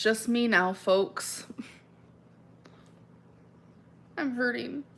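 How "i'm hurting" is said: whispered. Real, not acted. Admitting pain on camera.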